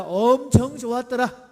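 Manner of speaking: leisurely Chungcheong dialect demo. Shown as a demonstration. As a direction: stretch 엄청 in Chungcheong style. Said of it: "충청도 버전입니다".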